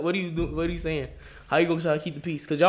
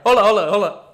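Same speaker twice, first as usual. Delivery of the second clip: loud, higher hold-up call; mock alarmed shout; 5 semitones higher, 12 dB louder than usual. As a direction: yell it out to stop him. Retold worker stopping the prankster.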